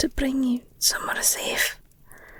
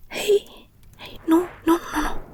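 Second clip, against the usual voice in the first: higher, breath-laden, concerned hushing; urgent soothing; 4 semitones higher than usual. Acted. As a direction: stop their distress gently but quickly. Listener breaks down, speaker rushes to soothe.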